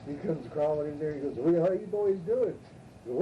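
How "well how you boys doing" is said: slow, higher folksy drawl; lightly voiced lawyer, stretched out; mock friendly southern lawyer; drawled lawyer greeting.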